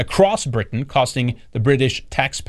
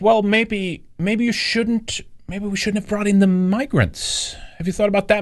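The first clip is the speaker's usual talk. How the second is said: lightly voiced mock question, pitched up; mocking imitation; 8 semitones higher than usual. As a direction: tease them with a higher, needling voice. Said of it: "And it was like".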